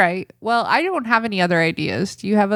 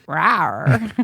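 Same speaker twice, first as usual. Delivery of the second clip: lion roar; 3 semitones lower than usual. Shown as a demonstration. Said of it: "A lion roaring".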